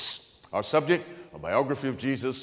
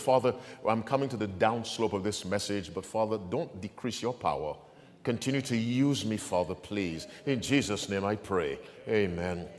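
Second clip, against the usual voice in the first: lower, subdued pastor's prayer; earnest prayer; 3 semitones lower than usual. Real, not acted. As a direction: plead humbly with the Father. Prays aloud before reading.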